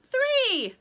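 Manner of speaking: very high, loud count; yelling. A narrator's reading. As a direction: shout your number, pitch falling at the end. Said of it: "yelled Sugar".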